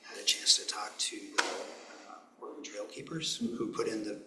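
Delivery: hoarse, losing his voice; raspy whisper. Real, not acted. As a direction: talk through a worn-out raspy voice. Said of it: "I'm losing my voice here".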